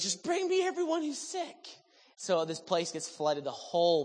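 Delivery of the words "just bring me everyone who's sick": much higher, brisk commanding call to the crowd; Heidi's command. Retold or imitated. Heidi orders her team to bring the sick, commanding call. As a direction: voice her as a bold leader ordering the sick brought in. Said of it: "she goes".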